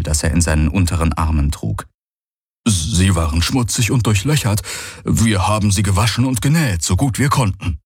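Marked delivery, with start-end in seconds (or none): 2.7-7.8 lightly voiced young alien, a little higher; junger Vierarm, dienstbeflissen. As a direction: humbly report a job done. (leicht angedeuteter junger Vierarm, etwas höher)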